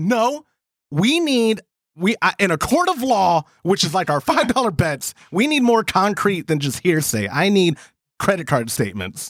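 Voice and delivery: ordinary delivery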